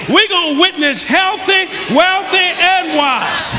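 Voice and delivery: shouted, high, drawn out slowly; slow triumphant proclamation; slowed emphatic repeat. Shown as a demonstration. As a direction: stretch every word for weight. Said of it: "Let me say it again".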